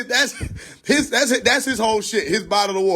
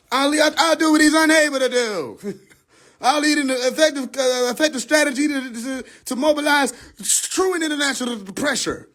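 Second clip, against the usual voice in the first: hammed-up stump speech, higher and shouted; mock politician speech; 7 semitones higher than usual. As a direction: belt the promise like a podium pledge. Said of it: "I sound stupid".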